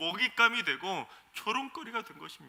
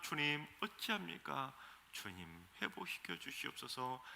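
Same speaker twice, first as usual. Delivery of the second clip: 애타는 호소; 3 semitones lower, 8 dB quieter than usual. Retold or imitated. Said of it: "눈물로 호소하며 애타게 기도를".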